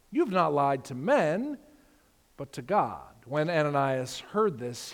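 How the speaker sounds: measured Bible reading to the congregation; scripture reading. Acted. Pastor reading Acts to the church, measured and solemn. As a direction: read the passage out with weight.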